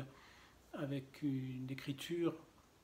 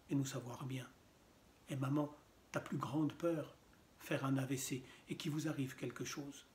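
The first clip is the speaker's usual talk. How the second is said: understated literary reading in measured phrases; poetry reading; faster than usual. Acted. Reader recounts a talk with mother about dying, understated poetry reading. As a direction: read it as verse, pausing between short phrases. Continues reading the poem aloud.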